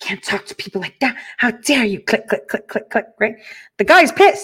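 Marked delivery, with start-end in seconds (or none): 0.0-2.0 flustered, breathy, indignant tone. Retelling a coworker's reaction to an angry caller: imitating a flustered coworker. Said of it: "She's all flustered".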